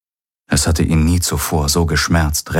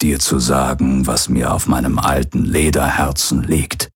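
put-on old pirate's recorded message. Hologram of the old pirate addressing his son, lightly voiced. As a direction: speak as the aging pirate father leaving a last message.

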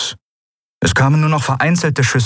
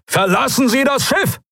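very high, desperate yell of a name; bellowing. Acted. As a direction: roar her name across the bridge. Continues Thelios's shout.

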